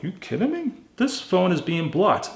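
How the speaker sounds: retold disbelief. Telling a friend about the blocked number, incredulous. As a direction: act out shocked disbelief at the blocked phone. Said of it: "I'm like".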